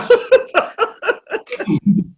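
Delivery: sudden high laugh; high-pitched laugh. Real, not acted. Laughs at his own mistake.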